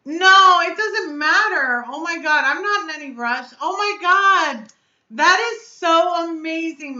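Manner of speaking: high, loud, stretched-out gushing; overjoyed. Real, not acted. Streamer reacting to Michelle's gift, overjoyed and amazed. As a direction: gush in real amazement, drawing words out.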